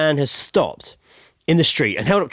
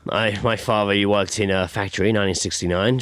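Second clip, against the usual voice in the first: oblivious man; 6 semitones lower than usual. Acted. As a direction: play a mildly clueless, chatty fellow. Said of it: "he's completely oblivious".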